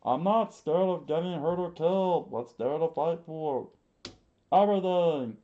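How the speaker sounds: put-on high, loud desperate kid shout; loud high boy screaming to fight. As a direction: yell it like a boy who refuses to back down. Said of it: "screamed out loud".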